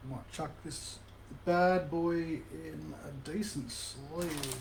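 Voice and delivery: talking while eating lollies; words slowed around a mouthful of candy; mouth full. Real, not acted. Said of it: "I'm just eating lollies while I do this".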